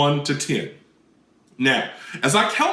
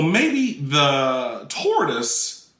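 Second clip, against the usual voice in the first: slow, drawn out; much slower than usual. Shown as a demonstration. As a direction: stretch out the words slowly. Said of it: "I might make a decision that".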